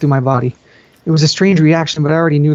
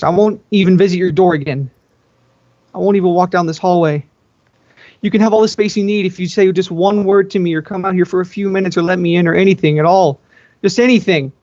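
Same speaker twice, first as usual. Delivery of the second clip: higher, desperate begging through a door; pleading younger sister; 5 semitones higher than usual. Acted. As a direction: plead with the sister who won't answer.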